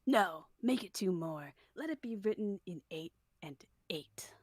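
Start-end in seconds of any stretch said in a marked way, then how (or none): 1.7-4.3 unvoiced stage whisper. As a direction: whisper the line. Whispered character line.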